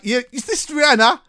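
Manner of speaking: high, lightly put-on radio presenter; a touch of the slick DJ read; mock radio DJ voice. The guest imitating his own demo read, lightly voiced. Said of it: "talking a bit like".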